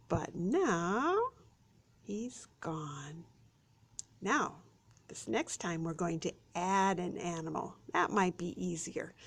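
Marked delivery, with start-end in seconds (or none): 2.0-3.2 whisper. Acted. Suspense reveal for kids.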